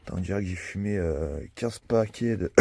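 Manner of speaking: smoker's rasp. Real, not acted. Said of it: "j'ai ma petite voix du matin".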